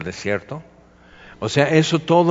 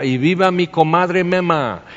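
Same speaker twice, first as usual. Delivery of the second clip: higher-pitched mock balcony cry; imitated drunken cheer; 5 semitones higher, 3 dB louder than usual. A drunk man hailing his comadre from the balcony, mock cheer. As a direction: call it out as a lightly acted cheer. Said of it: "y, y grita".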